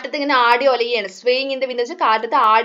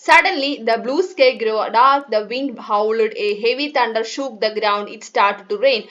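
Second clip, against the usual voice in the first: measured, deliberate English story reading; story read-aloud; much slower than usual. Acted. Teacher reading the storm scene to pupils, measured read-aloud.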